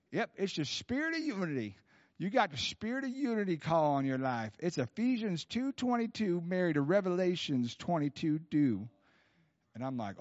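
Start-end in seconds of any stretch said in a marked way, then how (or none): 0.1-8.9 raised Southern twang; Bob Jones. Retold or imitated. Prophet revealing the caller's calling, raised Southern accent. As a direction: proclaim it like a Southern country prophet. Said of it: "giving you a little Bob Jones accent".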